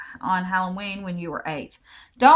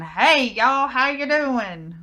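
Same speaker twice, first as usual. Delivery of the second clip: hammed-up hick drawl, higher and drawn out; hick accent; 6 semitones higher, 5 dB louder, much slower than usual. Shown as a demonstration. Joking about sounding like a hick next to British accents, exaggerated hick accent. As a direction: lay the hick accent on thick and slow. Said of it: "I sound like a hick".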